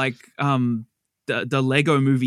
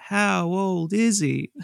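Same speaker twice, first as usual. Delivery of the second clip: slow prompting question; 3 semitones higher, slower than usual. Shown as a demonstration. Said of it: "Now you do that".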